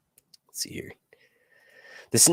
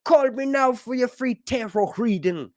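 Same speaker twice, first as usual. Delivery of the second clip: high-pitched Jamaican psychic pitch; Miss Cleo; 8 semitones higher than usual. Acted. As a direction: put on a hammy Jamaican accent, pitched up. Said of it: "with that Jamaican".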